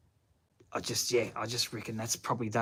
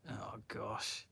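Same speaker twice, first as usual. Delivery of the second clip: whispered oh gosh; 2 semitones lower, 14 dB quieter than usual. Real, not acted. Reacting to a chat comment.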